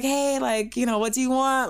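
put-on high phone voice; high-pitched work voice. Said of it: "in a voice like that".

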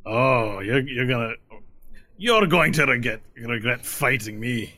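put-on drunk threat. Drunk tiefling threatens Varel.

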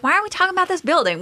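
high, fast mock whine; mimicking impatience. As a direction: rush it like a bored complaint. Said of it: "You were like".

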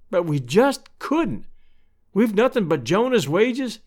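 lightly voiced Missus Stetson, earnest and troubled; distressed neighbour woman.

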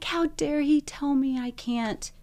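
imitating an outraged protest that loses steam; retold indignation. Patient at home protesting the surgeon's verdict, retold indignation. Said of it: "so mad".

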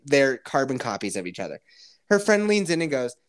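ordinary talk

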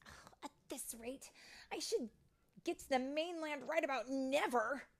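high-pitched exasperated complaint; grumbling. A narrator's reading. Tink alone on the beach, grumbling. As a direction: grumble to yourself in frustration. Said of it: "she grumbled".

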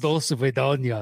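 put-on slow Scottish-accented Russian; imitated Scottish take on Russian; Sean Connery. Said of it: "there's a heavy Scottish".

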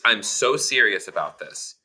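burp in the middle of speaking. Real, not acted. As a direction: talk through a burp. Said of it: "Pardon my burping".

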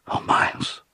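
faint, whispery moan; sick, subdued moan. A narrator's reading. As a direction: moan it weakly, as if about to be sick. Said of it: "subdued sort of moan".

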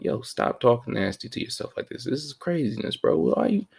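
high-pitched mock scolding; high voice telling himself off; high scolding self-talk. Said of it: "I was talking to myself".

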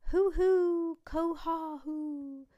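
high, loud, slow bird calling; swan call. Acted. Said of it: "Judy sang a swan song".

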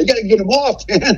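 the plea climbs as panic grows. Retold or imitated. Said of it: "I'm getting desperate now".

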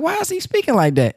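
puzzled disbelief. Retold or imitated. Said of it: "I'm like".

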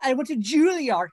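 mildly hammed-up pretension; mock pretentious. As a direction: parody an actor bragging about training. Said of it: "pretentious ass statement was horrible".

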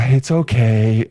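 sigh. Acted. Mock reply to apology.

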